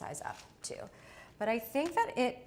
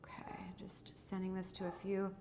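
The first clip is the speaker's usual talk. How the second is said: whispering; 6 dB quieter than usual. Real, not acted. Whispering aside off mic.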